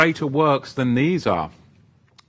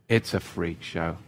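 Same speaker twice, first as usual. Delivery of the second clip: softer, lower muttered repeat; soft aside; 6 semitones lower, 6 dB quieter than usual. Acted. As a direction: drop the voice and say it to yourself. Repeating the same jab.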